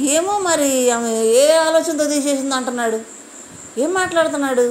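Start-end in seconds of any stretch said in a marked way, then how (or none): 0.1-2.5 slow, lightly voiced puzzled mumble; a hint of Kalyan, slow and unsure; imitating Kalyan. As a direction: mimic a confused contestant, dragging it out. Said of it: "Kalyan అంటాడు".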